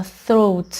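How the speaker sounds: throat with the tongue between the teeth for "th"; throat, careful interdental th; dental th. Shown as a demonstration. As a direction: put a clear breath of air into the "th" of throat. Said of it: "حتما باید زبونتون رو بذار بین دندون".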